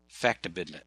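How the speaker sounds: factibidnit, each syllable run together; odd coined word. Shown as a demonstration. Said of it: "pronounced just the way it looks".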